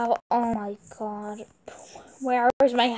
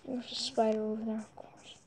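whispering; 7 dB quieter than usual. Real, not acted. Spotting a spider nearby.

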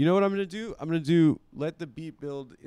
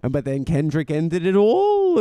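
lightly voiced Jewish accent, slow; a hint of a Jewish accent, drawn out. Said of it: "giving them a Jewish voice".

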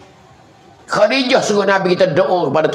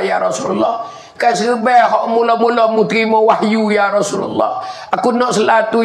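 lightly voiced dying wife, higher, earnest pleading; a hint of a dying woman begging her husband; 5 semitones higher than usual. Dying Khadijah begging the Prophet for patience, higher pleading voice. Khadijah asks for his turban as shroud.

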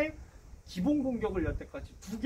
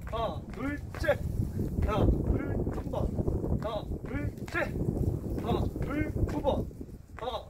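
higher, punchy counted calls; barking gym coach; 5 semitones higher, slower than usual. Shown as a demonstration. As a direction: bark each count like a trainer. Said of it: "시작".

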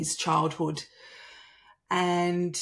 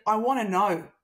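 fired up; 4 semitones higher, 5 dB louder than usual. Retold or imitated. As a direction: confront him, pressing each word. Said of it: "I was so fired up".

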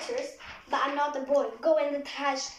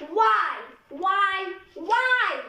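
louder, insistent repeated why; exasperated whys; 2 semitones higher, 5 dB louder, much slower than usual. Pretend. Girl fed up with the boy's sweater, loud exasperated whys. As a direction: demand it over and over.

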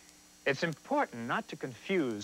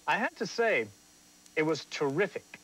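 raised, eager praise; a touch of gushing praise; enthusiastic; 2 semitones higher than usual. Shown as a demonstration. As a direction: sound genuinely delighted. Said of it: "Definitely an exclamation point".

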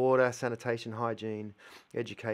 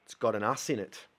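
quiet repeat; 5 semitones lower, 7 dB quieter than usual. Shown as a demonstration. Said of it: "quiet repeat".

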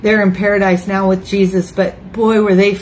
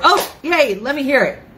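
giddy; 4 semitones higher than usual. Retold or imitated. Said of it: "he'd be so giddy and so glad".

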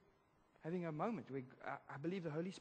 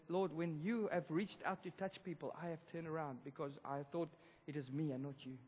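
inner prayer. Retold or imitated. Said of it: "I'm thinking".

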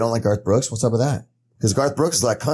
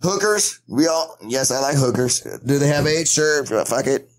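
Charlie Sheen impression. Playing Charlie Sheen, listing his vices to friends. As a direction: rattle off the list like Sheen. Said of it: "He'd be like".

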